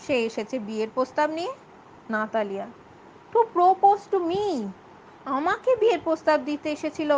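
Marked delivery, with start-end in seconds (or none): 3.3-7.1 shocked. Acted. Daughter repeats her shock.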